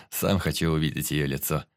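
low voice with a touch of mirth; amused warrior. Acted. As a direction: say it low, just after a chuckle. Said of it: "Весело рассмеялся воин".

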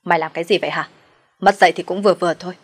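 loud angry rebuke, a bit fast; sharp yell. Acted. Nam breaks up the fight, yelling angrily. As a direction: bark at her to stop. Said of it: "vàng can ra và quát".

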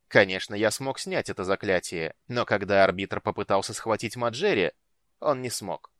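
cold, commanding dark lord voice; menacing lord. Acted. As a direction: speak as a ruthless ruler. Night lord character voice.

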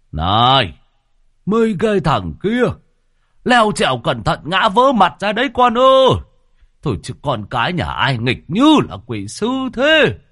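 put-on loud, high yelling at the kids; scolding shout. A narrator's reading. Old teacher yells at kids climbing in the alley, loud. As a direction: bellow at the naughty boys next door. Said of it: "ông giáo cư ở nhà bên quát tháo".

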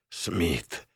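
hoarse, quiet croak of a wounded man; wounded man rasping a name; rasped. A narrator's reading. Wounded pilot croaks his partner's name, rasping. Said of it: "прохрипел он по-русски".

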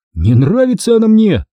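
high, indignant retort; cross protest. A narrator's reading. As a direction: snap back that you dislike it. Cross boy contradicts his sister. (сердитое возражение)

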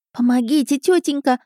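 put-on high, pleading childish whine; put-on plaintive kid voice; whining boys. A narrator's reading. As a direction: beg like a whiny little boy. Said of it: "заныли мальчишки".

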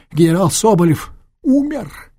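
high, loud alarmed announcement; alarmed cry. Acted. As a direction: blurt out the terrible news. Чиновник объявляет страшную весть. (чиновник сообщает о смерти генерала, испуганный крик)

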